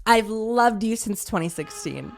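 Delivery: slow, drawn-out declaration of love; dead serious. Retold or imitated. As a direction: imitate an earnest fan, stretching each word. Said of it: "dead serious".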